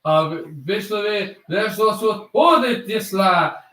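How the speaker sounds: made-up foreign-language play-by-play; mock French commentator. Shown as a demonstration. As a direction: fake a French broadcast with invented words. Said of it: "I'm making up French".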